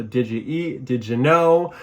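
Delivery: "Did you" slurred into "didja" before the verb; words run together. Shown as a demonstration. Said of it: "it almost becomes one word".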